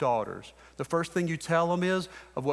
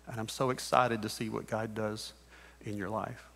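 tender address. Real, not acted. Father speaks to his own kids.

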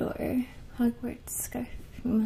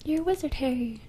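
a hint of the gruff giant saying it, voiced and louder; movie quote; 3 semitones higher, 5 dB louder, faster than usual. Breaking the whisper to quote the wizard movie line, louder. Quoting famous Harry Potter line.

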